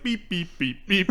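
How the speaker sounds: high little dialing beeps; imitated phone beeps. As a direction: beep out each button press. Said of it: "he pulls his landline over and he's like".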